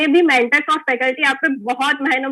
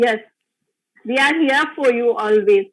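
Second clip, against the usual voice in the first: very slow, sincere promise to students; slow reassurance; 3 semitones lower, much slower than usual. Real, not acted. Teacher reassuring her class, slow and sincere. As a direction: lean in and promise it slowly.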